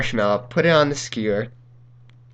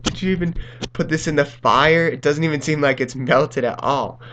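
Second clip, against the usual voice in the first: higher, indignant mock complaint; mad mom imitation; 4 semitones higher than usual. Mom griping about the unmelted s'more, mildly mock-angry. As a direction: lightly act out a mom's disbelieving protest. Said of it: "she was so mad".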